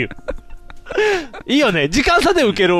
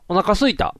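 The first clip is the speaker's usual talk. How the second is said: put-on lightly babyish, spoiled whine; a touch of pleading, like a hungry kid; wheedling; slower than usual. Co-host suddenly hungry from burger talk, lightly wheedling. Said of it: "何甘えた声出してん？".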